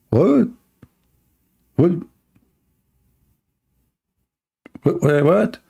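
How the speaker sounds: high, sharp disbelieving what; incredulous what. Real, not acted. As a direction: toss it out stunned. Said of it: "repeated disbelief".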